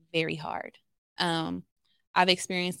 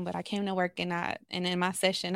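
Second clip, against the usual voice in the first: ordinary talk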